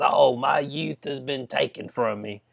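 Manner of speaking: slow, lightly whiny mock lament; mocking whine. Mocking the convicted woman's statement, slow mild whine. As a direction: parody her self-pity, drawn out. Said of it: "spit this nonsense".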